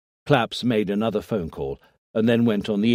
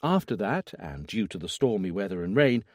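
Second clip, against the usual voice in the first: neutral professional tone; 3 semitones higher than usual. Acted. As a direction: read the autopsy findings coolly, like a doctor. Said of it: "in a neutral and professional tone".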